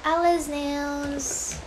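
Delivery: "Alice Nails" very slowly, as AL-iz NAYLZ; trying a pronunciation. Shown as a demonstration. Streamer unsure of a salon's name, trying "Alice Nails" long and drawn out. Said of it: "so many ways you can pronounce it".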